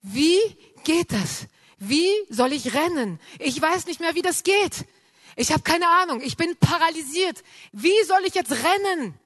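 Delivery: retold inner scream, rising and pleading; desperate cry to God. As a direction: cry out to God, helpless and frantic. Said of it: "ich hab innerlich zu Gott geschrien".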